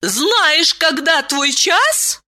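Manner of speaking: high, stern question. A narrator's reading. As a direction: ask it strictly. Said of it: "строго спросила Айлен". (строго)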